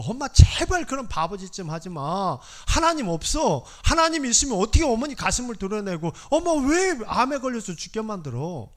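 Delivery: begging her to stop, voice lifted in anger; angry plea. Retold or imitated. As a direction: son shouting at his sick mother. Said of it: "막 화를 냈더니".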